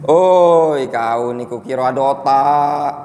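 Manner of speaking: the line in a light Palembang Malay dialect, a loud "Oi" up front; rough everyday Palembang speech, lightly voiced. Teacher mimics a Palembang local's blunt put-down, light Palembang dialect. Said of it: "Bahasa Palembangnya".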